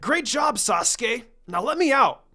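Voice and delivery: high, loud, impatient plea; loud pleading. A narrator's reading. Tied-up boy loudly begs his teammate to free him. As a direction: beg loudly to be freed. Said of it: "the blonde pleaded".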